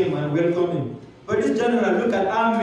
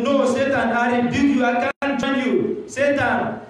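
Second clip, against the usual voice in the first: higher, commanding rebuke; firm rebuke; 6 semitones higher than usual. Acted. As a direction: cast the devil away. Pastor rebukes Satan.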